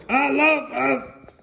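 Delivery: high, slow shout cut off; shouting at the top of his lungs. Acted. Mister Noisy starting to shout at Mister Crumb, high and slow. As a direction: start a big shout then stop. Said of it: "started to shout at the very top of his lungs".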